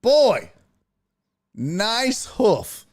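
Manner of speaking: put-on high, teasing oh boy; a hint of a cartoonish admirer; mock leering woman. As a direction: pitch it up and ogle. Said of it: "no chick would be like".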